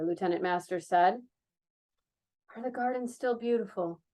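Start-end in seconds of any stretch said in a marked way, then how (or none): 2.6-4.0 softer, dreamy wondering; the former dancer dreamily asks about the gardens, softer. Acted. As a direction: ask it softly, lost in memory. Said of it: "asked dreamily".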